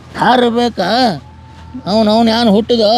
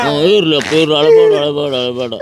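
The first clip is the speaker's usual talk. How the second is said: low, soothing reassurance; 6 semitones lower, faster than usual. Acted. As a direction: hush a crying child, pitched low. Grandfather soothes a crying child. (ಸಮಾಧಾನ ಮಾಡುವ ತಗ್ಗಿದ ಧ್ವನಿ)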